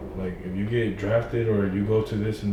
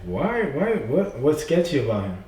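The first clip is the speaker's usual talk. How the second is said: higher, mock-demanding why; protesting friends; 5 semitones higher than usual. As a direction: friends challenging the girl. Friends defending him in story.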